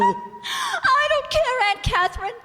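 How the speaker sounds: tearful, rising distress; crying. Acted. Niece sobbing to her aunt about her husband, tearful. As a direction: sob it out, going to pieces. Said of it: "stop that crying".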